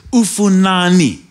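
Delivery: ufunani with even syllables and a falling end; African-language exclamation. Retold or imitated. Woman hitting the preacher, angry foreign outburst. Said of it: "in an African language".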